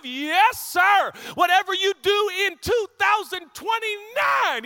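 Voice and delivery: high, loud, slow-building shouted preaching; fired-up pulpit shout; preaching at full force. Acted. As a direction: preach it out to the back row.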